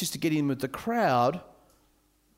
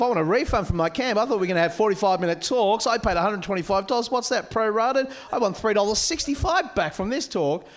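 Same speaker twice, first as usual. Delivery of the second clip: complaining camper; 3 semitones higher than usual. Pretend.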